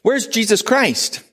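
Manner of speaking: high, slow, earnest question; a foreign visitor's sincere, high-pitched question to the guide; asking Mohammed's question. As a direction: ask it openly, wondering aloud. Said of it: "and he says".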